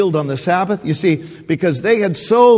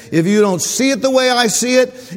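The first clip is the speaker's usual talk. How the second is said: heated, higher and louder mock rant; mocking the legalists; 6 semitones higher, 6 dB louder than usual. Preacher mimics legalists to his congregation, loud mock rant. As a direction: spit out their narrow rules. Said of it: "they're saying this".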